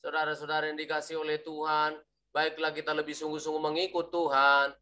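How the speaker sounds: mock monotone pastor; flat preacher. Shown as a demonstration. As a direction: drone the sermon on one note from start to end. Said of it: "dari awal sampai akhir flat gitu".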